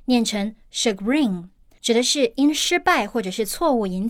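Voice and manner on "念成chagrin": chagrin said slowly, French style, with the weight on grin; shagREEN, stress the last syllable; slow teaching model of chagrin; stress on the second syllable. Shown as a demonstration. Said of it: "重音在后面".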